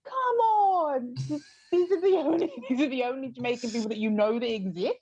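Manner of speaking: high, fast, laughing disbelief; incredulous, half-laughing appeal; mock exasperation. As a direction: protest as if you can't believe they tried it. Mock appeal to bad impressionists.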